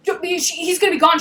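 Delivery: hammed-up flustered pleading; mock panic. Him panicking that she'll lose him, mock panic. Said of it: "like, panicking".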